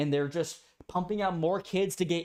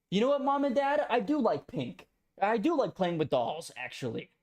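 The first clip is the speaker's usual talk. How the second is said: higher mock child confessing to his parents; 4 semitones higher than usual. Kid voiced telling Mom and Dad what he likes, higher mock child voice. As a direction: play the kid admitting he likes pink.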